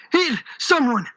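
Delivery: mild high-pitched cry for help; screaming. A narrator's reading. Old shopkeeper keeps calling for help, mildly screamed. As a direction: call out, half-screamed. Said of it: "continued to scream".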